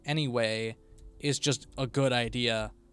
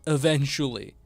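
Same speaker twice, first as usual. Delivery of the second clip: exasperated; 5 dB louder than usual. Real, not acted. Exasperated promise to viewers.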